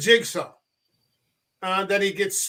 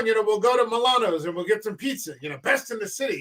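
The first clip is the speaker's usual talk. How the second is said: friendly, affable character; 2 semitones higher, faster than usual. Acted. Affable regular inviting pals out for pizza, friendly. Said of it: "He's a very friendly character".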